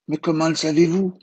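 put-on a boy amazed at the old man; voix d'enfant. A narrator's reading. L'enfant s'étonne. (voix d'enfant étonnée et aiguë)

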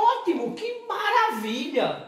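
sarcastic. Real, not acted. Sarcastic reply with laugh.

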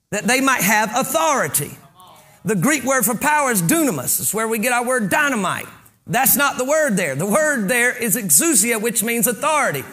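emphatic sermon voice; preaching. Acted. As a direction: preach it out to the congregation. Preaches with full projection.

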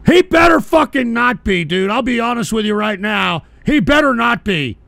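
heated denial shout. Real, not acted. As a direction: warn them off firmly. Reacts to Turkey Tom claim.

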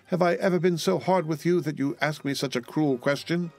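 high, plaintive reproach; acted weepy protest, pitch held up; tearful. A narrator's reading. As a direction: plead in a hurt, high-pitched wail. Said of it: "bursting into tears".

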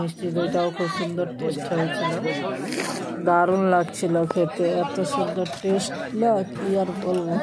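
talking while chewing; speaking between bites of food; mouth full. Real, not acted. Seen 4: hand feeds food into mouth at 2.5 and 6.7, chewing between.

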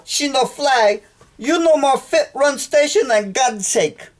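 high, put-on Chinese accent in broken English; mock Chinese accent. Man who lost his bags yells at station counter in mock Chinese accent. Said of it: "I'm gonna try a Chinese dialect".

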